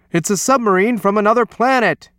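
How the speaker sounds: high, loud panicked exclamation; alarmed shriek. A narrator's reading. Coach spotting Alphonse in the pool, high alarmed shriek. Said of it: "shrieked the coach".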